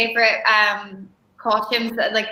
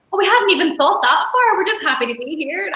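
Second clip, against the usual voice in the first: laughing quote; 5 semitones higher than usual. Retold or imitated. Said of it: "I was like".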